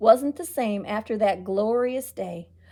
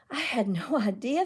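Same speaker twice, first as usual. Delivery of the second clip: sadly; 3 dB quieter than usual. Acted. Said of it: "the mayor said sadly".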